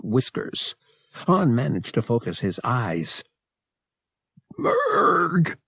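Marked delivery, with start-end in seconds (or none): 4.6-5.6 high-pitched, winded gasp; feeble gasp. A narrator's reading. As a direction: gasp the name out with little breath. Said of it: "he gasped feebly".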